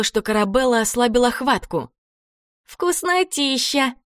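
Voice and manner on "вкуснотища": slow, high, drawn-out relish; ghoul savouring. A narrator's reading. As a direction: savour each sound like a greedy ghoul. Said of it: "выговорила Карабелла".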